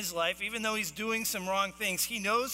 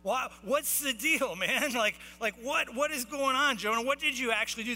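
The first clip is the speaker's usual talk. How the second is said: higher, mildly raised exasperated demand; mock screaming; 4 semitones higher than usual. Sailors question Jonah during the storm, mild mock yelling. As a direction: act out a half-hearted yell over a storm. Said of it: "They're screaming at the top of their lungs".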